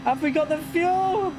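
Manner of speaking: high, strained, urgent race cries; tense excitement. Real, not acted. Final lap tension.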